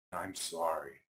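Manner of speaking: soft, low apology; sorry. Acted. Isaac apologising to the bears, soft and low. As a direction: say it softly, humbled.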